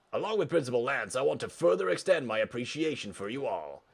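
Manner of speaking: polished assembly-speech delivery; class president's speech. Acted. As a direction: thank the school like a student leader.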